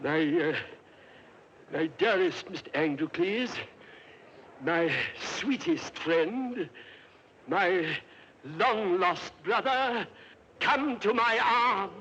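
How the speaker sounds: a nervous emperor forcing tender words, slowly; forced affection. Acted. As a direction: sweet-talk the lion through clenched nerves. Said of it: "If you wouldn't mind saying something affectionate".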